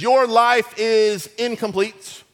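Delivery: slow, loud salesman pitch; hammed-up sales voice selling the formula; infomercial pitch. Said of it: "the formula they use to try to sell you stuff".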